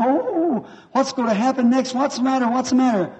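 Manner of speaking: put-on high panicked cries of a scared little girl; frightened screaming girl. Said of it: "She's screaming, jumping up and down". (grida spaventate di una bambina, molto più acute)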